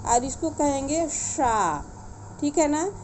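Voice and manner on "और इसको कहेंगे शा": शा said with the tongue at the palate, slow; palatal sha. Shown as a demonstration. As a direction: give शा a palatal sh, slowly. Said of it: "ये तालव्य सा है".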